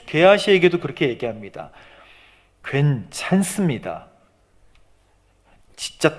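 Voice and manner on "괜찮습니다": slow, measured, composed answer; unhurried, contained reassurance; calm reassurance. Acted. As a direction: stretch it out calmly, giving nothing away. 여인이 게하시에게 태연히 답함.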